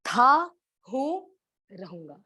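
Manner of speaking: था, हूँ, रहूंगा, each word set apart, fading to near silence; spaced-out emphasis. Shown as a demonstration. Preacher spelling out Krishna's promise word by word, fading. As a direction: pause between each word, last one breathed away. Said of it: "क्या बोल रहे हैं?".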